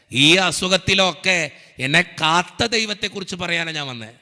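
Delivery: emphatic preacher with stretched key phrases; rousing sermon delivery; fervent preaching. Real, not acted. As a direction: drive each promise home to the congregation. Preaches encouragement to the congregation.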